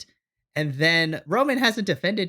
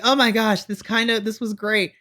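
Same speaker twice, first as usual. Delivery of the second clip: excited gushing; 6 semitones higher than usual. Retold or imitated. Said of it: "And then I was like".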